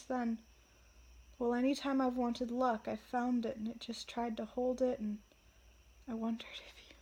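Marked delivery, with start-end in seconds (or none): 1.4-7.0 starting to cry. Real, not acted. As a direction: voice softening and welling up. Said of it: "I'm crying".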